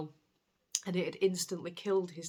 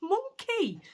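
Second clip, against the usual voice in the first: high, laughing through it; fond laughing; 12 semitones higher, 4 dB louder than usual. Retold or imitated. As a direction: call the cat a rascal with a giggle. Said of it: "And I just thought".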